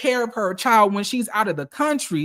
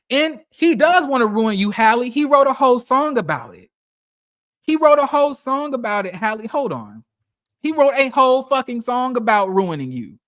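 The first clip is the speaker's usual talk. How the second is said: louder, higher insistence, hammering the point; emphatic callout; 3 semitones higher, 4 dB louder than usual. Real, not acted. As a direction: drive it home to Hallie, louder. Emphatic callout addressed to Hallie.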